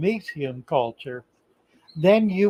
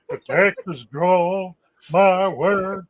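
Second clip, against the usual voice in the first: Texas drawl; 2 semitones higher, slower than usual. Shown as a demonstration. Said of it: "gotta do it deep".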